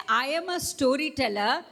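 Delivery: bright, proud announcing voice; storyteller voice. Shown as a demonstration. Teacher showing the class a proud, announcing storyteller voice. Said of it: "look at the voice in which I'm saying".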